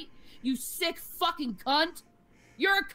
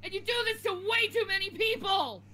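angry outburst; 2 semitones higher than usual. Real, not acted. Streamer telling bullies she hates them.

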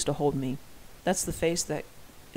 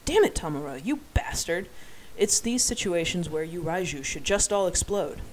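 mock outburst. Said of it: "I should shout this, right?".

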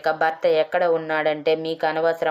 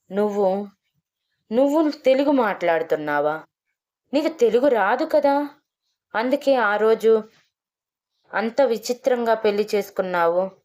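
higher, flustered and stumbling over words; the village head caught off guard, stammering; rattled stammer, voice jumping higher; stammering in shock; 5 semitones higher than usual. A narrator's reading. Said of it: "అని తడబడుతూ అడిగాడు".

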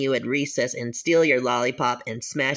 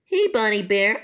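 a lightly raised cartoon kid greeting; chirpy cartoon kid hello; higher character voice; 4 semitones higher than usual. Kid characters each greet Bonnie.

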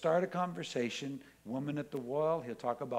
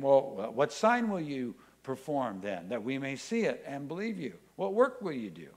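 challenging crowd; 5 dB louder than usual. Acted. Crowd challenging Jesus, quoted.

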